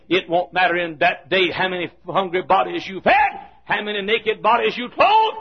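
rhythmic refrain on a near-level tone; driving preaching. Real, not acted. Preacher warning congregation about judgement day, driving cadence. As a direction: pound out each clause in a steady cadence.

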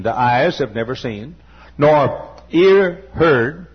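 sermon building in pitch and force; preaching. Real, not acted. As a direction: preach it with mounting insistence. Preaches at rising intensity.

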